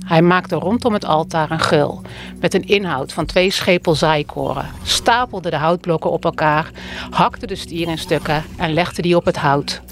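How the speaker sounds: measured, solemn scripture reading; Bible reading. Acted. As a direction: read the Bible passage aloud to the congregation. Voorlezen uit de Bijbel. (plechtig voorlezen uit de Bijbel)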